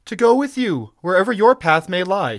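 high, loud heroine's plea; impassioned cry. A narrator's reading. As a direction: cry out your devotion. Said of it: "she cried".

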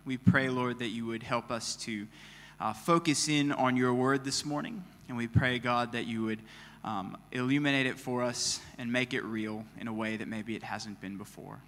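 soft, reverent prayer voice. Real, not acted. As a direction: pray quietly and humbly. Pastor prays before sermon.

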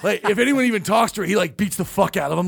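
words broken by real laughter; giggling while quoting the prank; laughing through it. Real, not acted. Laughing while retelling Bijan's warning.

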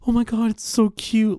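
high squealy mock gush over a pet; gushing cutesy voice. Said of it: "that person that's like".

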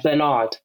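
Bernard with stress on the second syllable, ber-NARD; American-style ber-NARD; American pronunciation. Shown as a demonstration. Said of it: "some Americans would say the name Bernard".

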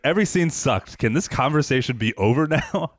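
put-on exasperated whine; mock complaint. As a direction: imitate a fed-up co-host, hammed up a little. Mimics co-host's complaining about the movie.

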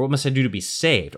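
"do" pressed with a falling end; stress on DO. Shown as a demonstration. Host emphasizing "do" for the co-hosts. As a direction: land the stress on "do". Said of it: "emphasize a different word every time".

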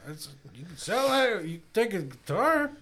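high, laughing brush-off; dismissive. Retold or imitated. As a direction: shrug the robber off. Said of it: "I'd be like".

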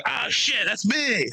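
shocked falsetto yelp; retelling his own startled high squeal; high squeak of shock. Retold or imitated. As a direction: squeak it out in surprise. High-pitched surprised quote.

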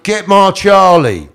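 high, loud, drawn-out mock demand; acting out Reg. Reg ordering prison staff to fetch Charlie, mimicked demand. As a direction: stretch it out and holler it, imitating.

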